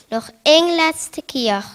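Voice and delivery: loud. Acted. Magic rhyme builds to finale.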